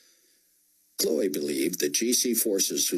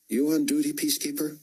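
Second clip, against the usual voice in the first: stern officer; 9 semitones higher, faster than usual. A narrator's reading. Officer interrogates soldier.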